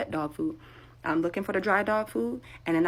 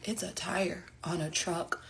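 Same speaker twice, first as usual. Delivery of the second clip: slow whisper to yourself; deadpan whispered reality check; whispered aside; 8 dB quieter, slower than usual. Real, not acted. Self-mocking aside.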